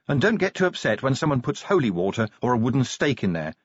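lightly voiced sergeant, slightly lifted; practical, matter-of-fact orientation; brisk sergeant. Sergeant showing new recruit the locker room, briskly practical.

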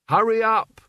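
loud, high-pitched call; impatient shout. A narrator's reading. Albert calls impatiently to Mort across the sand, shouting. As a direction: yell to hurry someone along.

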